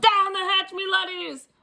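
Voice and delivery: high, loud captain's toast; captain at the dinner table; pirate yell. Acted. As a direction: bang the table and bellow. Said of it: "pounded his fist ... and yelled".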